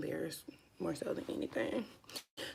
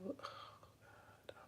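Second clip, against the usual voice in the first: soft breathless oh God; whispered dismay; 23 dB quieter than usual. Real, not acted. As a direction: whisper it at the mistake. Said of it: "ruining her brow".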